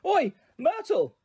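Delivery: high, slow bellow across the room; a big slow yell upward. A narrator's reading. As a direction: call out to Myrtle, drawn out. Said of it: "took a deep breath and bellowed".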